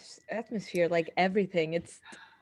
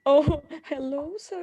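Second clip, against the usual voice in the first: tongue-tied; 7 semitones higher than usual. Pretend. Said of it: "I think I'd be tongue tied".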